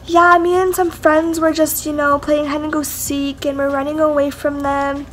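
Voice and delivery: lightly imitated tipsy friend making excuses; drunk friend. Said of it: "her drunk self".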